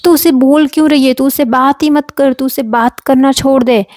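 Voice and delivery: mildly insistent retold parental order; imitating father. Father telling daughter after the fight to stop talking to him, mildly insistent. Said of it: "तो मेरा बाप क्या बोलता था".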